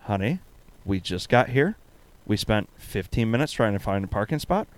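understated, no-nonsense retold scolding; retold firm refusal. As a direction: lay it down quietly, as the wife. Wife firmly refusing, retold.

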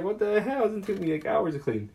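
high, loud indignant squeal; mock outrage. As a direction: complain in a shrieking falsetto. Retold outrage.

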